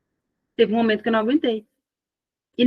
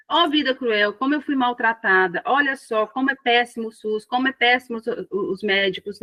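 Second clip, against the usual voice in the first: mock victim whine; 3 semitones higher than usual. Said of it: "não é a gente se vitimizar".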